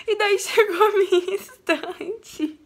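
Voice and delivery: real crying, voice wobbling with joy; tearful. Real, not acted. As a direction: fight back happy tears. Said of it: "Eu comecei a chorar".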